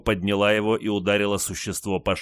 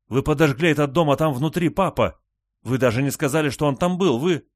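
high, loud horrified accusation; distraught exclaiming; 7 semitones higher, 4 dB louder than usual. A narrator's reading. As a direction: cry out in panic at them. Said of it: "воскликнула Ли".

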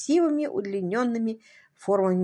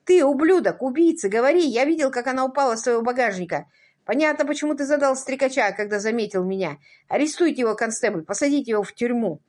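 furious accusation; 4 semitones higher, 4 dB louder, faster than usual. Acted. Furious accusation at the other man.

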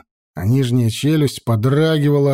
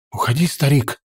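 hoarse shout. Acted. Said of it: "хрипло крикнула Айха".

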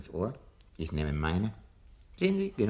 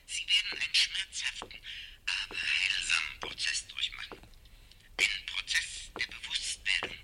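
whispered reassurance. Acted. Professor whispering reassurance into Montag's ear. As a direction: breathe the words close and calm. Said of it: "Ich werde Ihnen zuflüstern".

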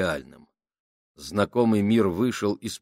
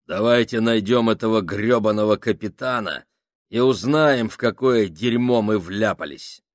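commanding; 7 dB louder than usual. Acted. Foreman rallies his team.

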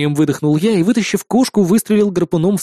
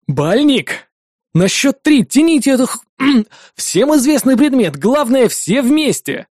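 commanding; 6 semitones higher, slower than usual. A narrator's reading. Hero ordering the team on three, higher. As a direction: order the pull.

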